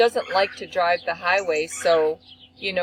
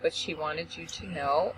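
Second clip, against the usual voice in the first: police officer on the phone; 3 semitones lower, 6 dB quieter than usual. Retold or imitated. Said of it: "this is the police officer".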